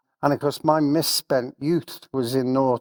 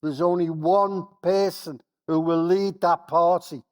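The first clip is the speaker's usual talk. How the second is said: excited; 6 semitones higher than usual. Real, not acted.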